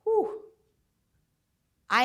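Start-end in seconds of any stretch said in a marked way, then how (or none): 0.0-0.4 high, breathed whew; heavy whew. Retold or imitated. Speaker absorbing the boss's words, high whew. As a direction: let the hard words land with a whew.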